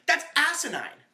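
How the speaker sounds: high, loud outburst in imitation; retold shout. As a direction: shout it at him like Dennis. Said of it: "Dennis just shouts at him".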